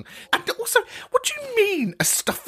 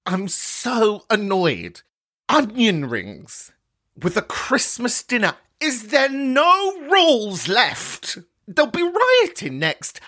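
mock outrage; 4 semitones higher, slower than usual. Mock outrage over onion rings.

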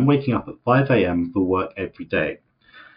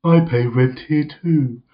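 moody Richmond; 4 semitones higher than usual. Retold or imitated. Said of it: "Richmond being all moody".

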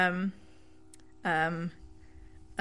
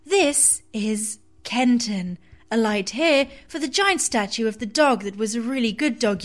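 tube lady voice; 5 dB louder than usual. Pretend. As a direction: announce it like the Underground. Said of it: "in your best tube lady voice".

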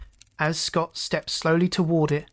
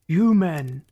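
raging; 4 dB louder, much slower than usual. Acted. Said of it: "he raged".

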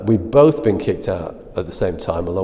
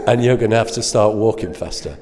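laughing. Retold or imitated. Laughing while retelling the threat.

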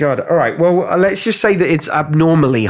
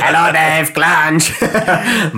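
silly clown; 2 semitones higher, much slower than usual. Pretend. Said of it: "the clown out of, uh, League of Gentlemen".

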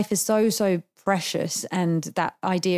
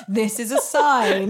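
mock despair; much slower than usual. Acting out despairing caller on bridge.

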